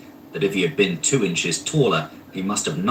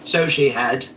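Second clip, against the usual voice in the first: cried out; 4 semitones higher than usual. A narrator's reading. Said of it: "cried Scrooge".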